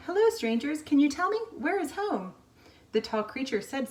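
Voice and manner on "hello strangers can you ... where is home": higher and louder, calling to strangers far off. Acted. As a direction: call out across the snow. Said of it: "Pip called".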